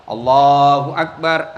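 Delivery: low, slow Allahu Akbar; drawn-out low takbir; demo takbir. Shown as a demonstration. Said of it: "ada yang begini". (takbir rendah dan pelan)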